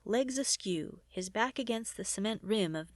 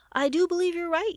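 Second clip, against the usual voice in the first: laughing; 8 semitones higher, 9 dB louder than usual. Acted. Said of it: "Gideon laughed".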